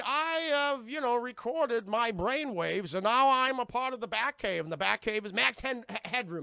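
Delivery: put-on staticky AI voice with stretched words; Max Headroom. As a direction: imitate a creepy, jumpy screen character. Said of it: "he's like Max Headroom, Chase, all creepy and staticky".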